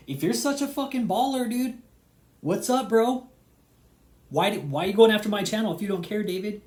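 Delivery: loud, high-pitched mocking jeer; angry taunt. Real, not acted. Mocking David for going after his channel, loud jeering. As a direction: taunt him, voice up high and hard.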